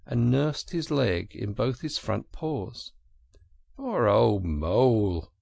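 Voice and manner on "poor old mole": slow, sympathetic and louder; slow, kind commiseration; kindly. A narrator's reading. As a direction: draw it out with kindly pity. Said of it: "said the Rat kindly".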